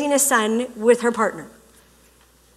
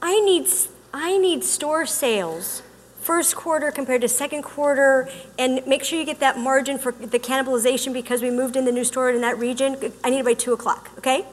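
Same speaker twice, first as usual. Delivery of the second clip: businesslike, quieter work orders; brisk boss; 4 dB quieter than usual. Retold or imitated. Giving an employee orders, brisk and quieter. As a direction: rattle off the demands like a manager.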